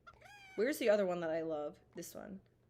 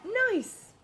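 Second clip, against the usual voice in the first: high, loud shrieks of joy; shrieking jackpot winner; 9 dB louder, much slower than usual. Real, not acted. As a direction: scream it like you just won big. Shrieks after big win.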